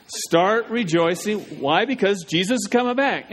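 drawn-out slogan for the crowd to echo; slow call to repeat. Shown as a demonstration. Pastor leading the congregation to repeat, slowly. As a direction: stretch each word so they can join in. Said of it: "I want you to say that with me".

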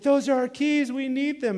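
high-pitched imitation of a wife shouting; retold urgent yell. Wife chasing the kids who grabbed the keys, urgent yell.

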